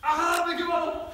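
startled yelp. Real, not acted. Sparkler burns while running.

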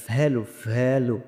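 ভ্যালু with a long buzzing v; deliberate teacher's model of ভ্যালু; correct V sound. Shown as a demonstration. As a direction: stretch the opening v of ভ্যালু. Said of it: "সঠিক উচ্চারণ করবেন".

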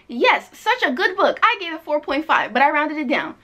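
cheery quoting of another fan. Retold or imitated. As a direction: read it like an eager fan. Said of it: "Hannah says".

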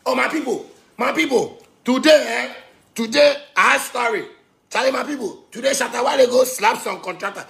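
excited story call. Real, not acted. Speaker announces a story to listeners, excited call. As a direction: hail the people, story coming.

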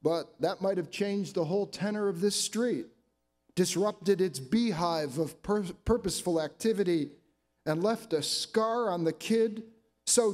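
measured, emphatic poem recital; deliberate phrasing, line by line; poetry reading. Acted. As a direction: read your poem to an audience, pausing between phrases. Reads own poem aloud.

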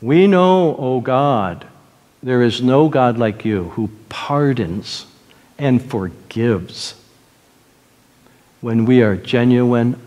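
low, measured pastoral prayer; earnest prayer. Real, not acted. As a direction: pray for someone in misery, pausing between phrases. Leads congregation in prayer.

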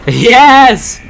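loud laughing yes; laughing cheer. Real, not acted. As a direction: whoop with a laugh. Laughs at a win.

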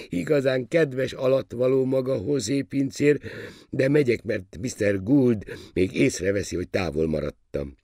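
put-on high, gracious boyish voice; young royal pleased with his subject; naive young prince, amused. A narrator's reading. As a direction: chatter politely at a high pitch.

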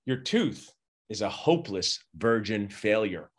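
low, slow, grim verdict; the wrong way to tell a patient; blunt bad news. Shown as a demonstration. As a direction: deliver it like a death sentence. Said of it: "don't say virgin".

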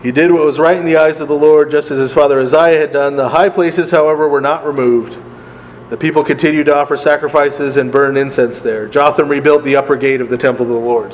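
reading aloud, lifted and steady; scripture reading. Acted. Teacher reads Kings to the class, scripture-reading voice. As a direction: read the verse out clearly to the group.

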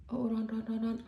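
huffing over a hot mouthful; mouth full of hot food. Real, not acted. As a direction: talk round scalding food. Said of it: "เต็มปากเต็มคำ".

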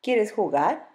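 lightly voiced snake, rising question; mild serpent invitation; anaconda asking. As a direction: coax him to play.

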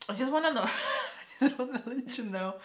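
high, tearful laugh breaking through; crying and laughing. Real, not acted. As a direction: laugh through real tears as you speak. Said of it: "I'm just crying and laughing at the same time".

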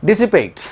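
"dissipate" as DIS-i-pate, clearly sounded; teacher's model "dissipate", ending in PATE; correct pronunciation. Shown as a demonstration. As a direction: demonstrate "dissipate" word by word for learners. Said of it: "बिल्कुल सही pronunciation है".

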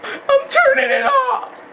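high, slow laughing shout; raging gamer. Acted. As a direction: scream it, half laughing. Angry gamer quits, laughing shout.

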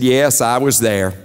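lightly voiced wife. Wife answers in joke.

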